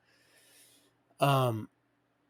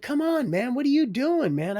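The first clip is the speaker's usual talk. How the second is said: mock exasperation; 12 semitones higher, 6 dB louder than usual. Teasing friend about the weed.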